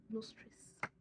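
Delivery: very quiet whisper; hushed, barely audible; whispered wonder. Real, not acted. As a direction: whisper it as if in disbelief. Sums up how easy it was.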